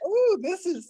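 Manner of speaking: high, breathless mock admiration; a sarcastic ooh; mock gushing. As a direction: gush like an impressed tourist, tongue in cheek. Mocking gushing about beautiful place.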